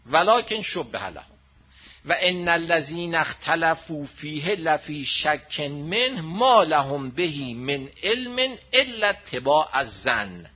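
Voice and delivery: slow, measured chanting of the Arabic verse; Quran recitation. Acted. Preacher to congregation, recites the verse slowly and solemnly. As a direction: intone the verse slowly like a preacher quoting scripture.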